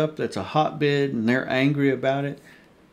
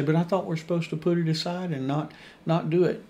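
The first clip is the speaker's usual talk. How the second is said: higher, whiny put-on objection; objecting churchgoer; 5 semitones higher, faster than usual. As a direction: pitch it up like a puzzled listener. Preacher voicing a congregant's objection.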